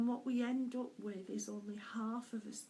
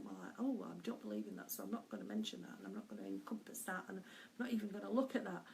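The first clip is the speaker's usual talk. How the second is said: fast, low, quieter aside to oneself; dismissive self-talk; 3 semitones lower, 4 dB quieter, much faster than usual. Retold or imitated. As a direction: rattle off old objections under your breath. Quoting own dismissive inner objections.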